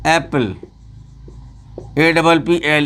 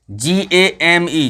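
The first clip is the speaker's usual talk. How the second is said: slow spelling; slower than usual. Shown as a demonstration. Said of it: "spelling out slowly".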